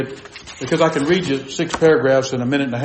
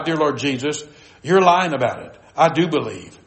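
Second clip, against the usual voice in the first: gently firm retold reply to the Lord; kindly, without arrogance. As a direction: answer back kindly, with no arrogance. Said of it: "I said this with kindness".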